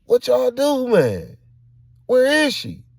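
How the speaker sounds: loud high-pitched shouting; frantic accusing questions; alarmed confrontation. Retold or imitated. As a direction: demand answers, yelling in alarm.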